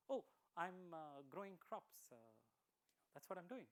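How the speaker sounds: halting, slow answer full of uhs; unsure of what to say, stumbling; hesitant farmer. Acted. Farmer answering Lord Buddha's question, hesitantly. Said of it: "hesitantly says".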